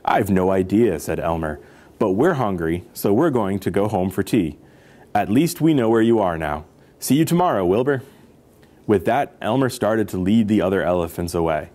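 expressive picture-book narration; story read-aloud. A narrator's reading. Storyteller reading about elephants to children, lively narration.

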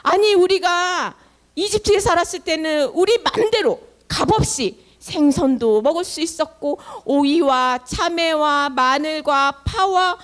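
mock complaint with stretched-out words; acted grumbling. Israelites missing the free food of Egypt, complaining. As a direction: grumble indignantly, listing what you used to have. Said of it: "같이 불평불만을 하는 거야".

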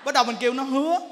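ordinary talk

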